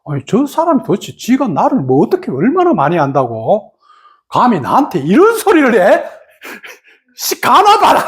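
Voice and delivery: indignant outburst. Retold or imitated. Fuming at home after insult.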